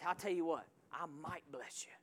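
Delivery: lightly voiced noncommittal God; mock hesitant God. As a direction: play God shrugging it off. Mock God hedging, quiet.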